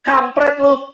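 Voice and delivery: blunt street greeting. Retold or imitated. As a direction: imitate a rough blunt businessman. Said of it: "kalimat pertama dia bilang begini".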